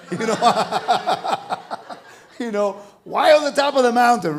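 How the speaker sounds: laughing through the words. Real, not acted. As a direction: chuckle as you ask it. Laughs at the mountain-top temple.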